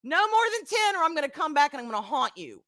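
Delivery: mock stern warning, high then settling; retold husband's warning. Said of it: "He's like".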